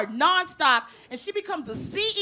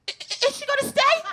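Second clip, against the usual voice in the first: imitating mother; 9 semitones higher than usual. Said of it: "my mother's watching the movie like".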